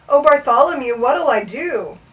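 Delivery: plaintive wail, slowing at the end. A narrator's reading. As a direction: plead helplessly, drawing out the end. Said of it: "the trumpeter wailed".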